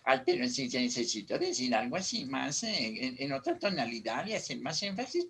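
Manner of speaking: low voice. Shown as a demonstration. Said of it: "uso la voz un poquito más bajita".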